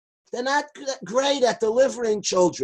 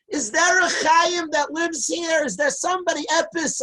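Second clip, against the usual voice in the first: mock yelling; 6 semitones higher than usual. Imagined yelling outside rabbi's house.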